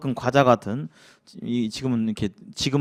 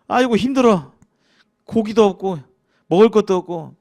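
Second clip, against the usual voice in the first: whiny grumbling; 4 semitones higher than usual. Retold or imitated. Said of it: "이게 막 불평을 하기 시작했어요".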